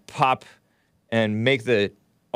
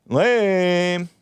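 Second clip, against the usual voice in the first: scoff; 7 semitones higher, 4 dB louder than usual. Real, not acted. Scoffing at editorial quote.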